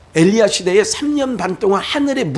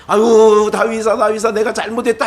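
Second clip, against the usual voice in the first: Saul apologizing; 4 dB louder than usual. Retold or imitated. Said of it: "해놓고 또".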